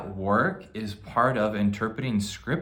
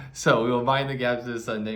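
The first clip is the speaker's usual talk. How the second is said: put-on British accent; 2 semitones higher, 3 dB louder than usual. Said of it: "You gotta say it with a British accent".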